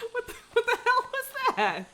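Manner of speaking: shocked by a sudden jump scare; startled outburst. Real, not acted. Still startled by game event.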